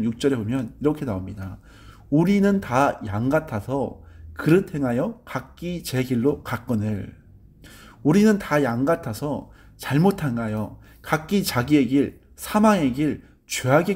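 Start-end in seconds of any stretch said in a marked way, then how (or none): 2.1-11.9 scripture reading. Acted.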